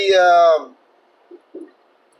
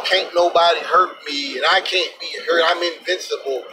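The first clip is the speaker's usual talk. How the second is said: mock cowboy bravado; 3 semitones lower than usual. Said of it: "cowboy mentality of".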